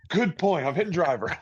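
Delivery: high, laughing give-in; laughing concession. Retold or imitated. To his buddy about the driver, laughing and high. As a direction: cave in with a laugh.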